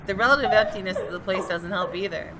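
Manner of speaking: steady, measured first-person narration; story narration. Acted. Reading the detective's inner monologue to viewers, measured narration. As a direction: read it like a tense mystery novel. Reads game narration aloud.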